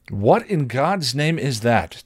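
slow, high-pitched disbelieving demand. A narrator's reading. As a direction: demand an answer, drawing it out. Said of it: "Tara's father demanded".

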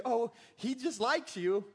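breezy, careless brush-off; dismissive excuse. Shown as a demonstration. The wrong response from a careless dog owner, breezy. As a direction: shrug it off like it's nothing. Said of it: "the response shouldn't be".

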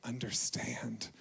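slow lament fading to a whisper; raw prayer to God. Retold or imitated. Pastor retelling his grieving prayer to the Lord, fading to a whisper. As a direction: let it drain away into a whisper. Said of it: "I was just like".

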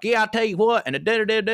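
mocking dumb-guy voice, pitched high; dumb character. Comic imitating an actor's dumb Oregon character, high-pitched dopey voice. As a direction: play a hammed-up dimwit on a TV show. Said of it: "supposed to be a dumb character".

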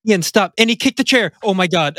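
hammed-up alarmed shouting; mock panic. Mock panic over joke.

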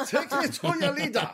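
high alien voice through laughter; squeaky alien demanding your leader. Acted. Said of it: "I feel like that was the German alien".

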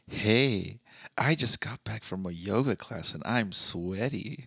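low, slow sultry purr. Retold or imitated. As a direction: tease it like a femme fatale. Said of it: "did she do it in a sultry voice".

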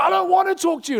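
put-on high, loud child's refusal; defiant toddler. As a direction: play the stubborn kid. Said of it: "He's like".

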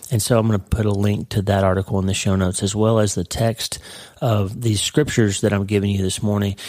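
slightly husky, frog in throat. Real, not acted. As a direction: talk through a frog in the throat. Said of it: "I got a little frog in my throat this morning".

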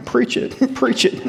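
laughing "preach it" call-out; playful mock cheer from the crowd; mimicking a cheer. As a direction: echo the heckler with a laugh. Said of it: "Aaron's, like, going out there".

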